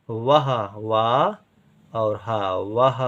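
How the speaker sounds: वह said slowly, वा drawn out; slow dictation. Shown as a demonstration. Teacher to pupil, slow dictation of वह. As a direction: draw वह out slowly. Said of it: "बड़ा आ और पा".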